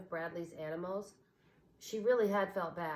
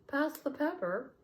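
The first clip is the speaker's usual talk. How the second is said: higher, odd owl voice; salt owl; 8 semitones higher than usual. A narrator's reading. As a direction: ask back in turn. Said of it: "said the salt owl".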